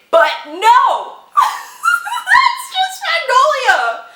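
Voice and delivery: loud squealing laugh, very high; high, loud, slow exclaim with a laugh; excited outburst. Real, not acted. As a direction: shriek it out with glee.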